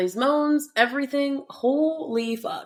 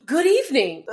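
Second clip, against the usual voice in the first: slightly hammed-up higher greeting; overdone comic relief; 5 semitones higher, 3 dB louder than usual. Imitating Sean's comic entrance in the audiobook, overdone. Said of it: "Totally overdoing it".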